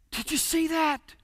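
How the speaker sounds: softly voiced mock whisper; quiet, awed half-whisper; hushed whisper. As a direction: ask it under your breath in amazement. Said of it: "Then a whisper started".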